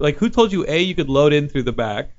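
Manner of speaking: 1 mock angry worker. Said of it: "and is like".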